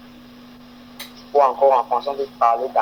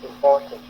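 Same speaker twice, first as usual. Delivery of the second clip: important with the middle syllable "por" stressed; im-POR-tant, light first syllable; stress on PORT. Shown as a demonstration. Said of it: "on prononce beaucoup le port".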